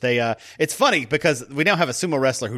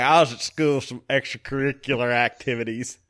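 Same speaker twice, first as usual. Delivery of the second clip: put-on Southern accent. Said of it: "he said extracurricular with that accent".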